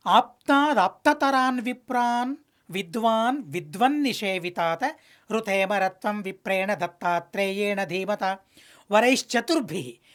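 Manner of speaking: measured Sanskrit verse chant; a lightly chanted sacred verse; shloka recitation. Acted. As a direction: intone the verse like scripture.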